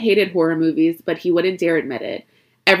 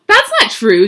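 louder, higher tearful protest; crying harder; 5 semitones higher, 7 dB louder than usual. A narrator's reading. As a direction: protest through tears. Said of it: "Josie cried harder".

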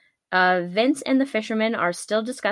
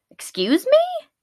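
mock shocked question; 4 dB louder than usual. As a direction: voice leaps very high in disbelief. Acted startled reply to creature's threat.

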